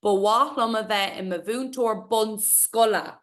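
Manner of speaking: bawach with the H sounded, lom falling; careful Irish reading. Shown as a demonstration. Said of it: "most common mistake".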